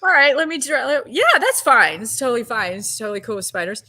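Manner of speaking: loud over-assurance, trailing into quick patter; faking cool. Retold or imitated. Actress as spiders are put on her, faking cool. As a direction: insist too hard that it's all fine. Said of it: "trying to act real cool".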